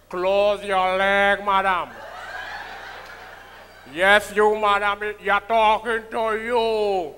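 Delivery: lightly voiced low scolding comedian; a hint of Sprangalang teasing a woman in the crowd; Sprangalang impression. Comedian scolding a woman in the back, lightly as Sprangalang. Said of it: "That is Sprangalang".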